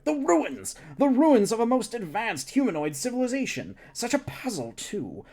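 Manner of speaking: high, thrilled alien scientist; excited scientist. Acted. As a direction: gush about the ruins. Scientist excited about ruins.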